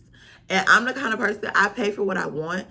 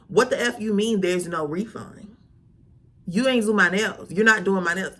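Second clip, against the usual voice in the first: retold upset. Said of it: "I'm, I'm upset".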